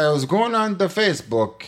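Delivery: put-on high, nasal-free old Jewish lady voice; old Jewish accent. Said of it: "with the old Jewish accent".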